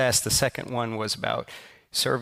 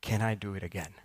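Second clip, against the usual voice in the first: put-on happy kid; 2 semitones lower, 7 dB quieter than usual. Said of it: "with a giant smile on his face".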